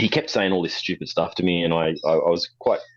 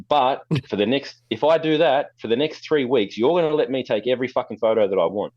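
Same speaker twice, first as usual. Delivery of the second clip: high, bold dare laying down terms; teasing challenge; cocky bargain; 6 semitones higher than usual. Retold or imitated. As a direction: strike the deal with swagger. Bargaining with bully.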